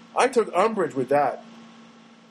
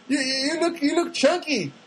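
imitated coworker; 8 semitones higher than usual. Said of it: "She goes".

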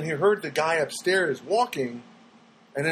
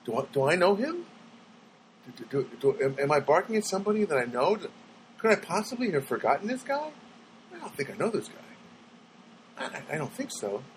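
hesitant, stammering puzzlement, trailing off softer; confused dog; 4 dB quieter than usual. Retold or imitated. Dog wondering if he knows this man, confused. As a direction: voice a puzzled dog's thoughts, lightly acted. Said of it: "He gets this confused look like".

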